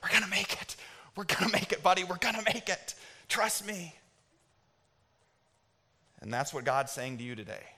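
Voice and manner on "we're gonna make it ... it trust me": imitated out-of-breath reassurance, pitched higher; hyperventilating. Dad reassuring his son while running through rain, mock hyperventilating. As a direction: puff it out urgently, as if running. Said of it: "hyperventilating 'cause I'm so out of shape".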